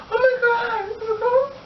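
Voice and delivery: very high, shouted wail; hammed-up shriek of alarm; mock frightened squeal. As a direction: imitate a panicked, crying outburst. Acts her frightened outcry, squealing.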